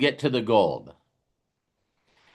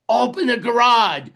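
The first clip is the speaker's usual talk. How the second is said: raised, higher call to open the garage; mock yell at garage; 6 semitones higher, 4 dB louder than usual. Driver pulling in, calling to family, excited shout.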